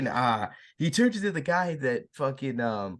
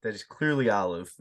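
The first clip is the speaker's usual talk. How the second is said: lightly voiced, lower stubborn answer; mock stubborn reply; 3 semitones lower than usual. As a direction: drop lower and stubbornly correct. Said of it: "He goes".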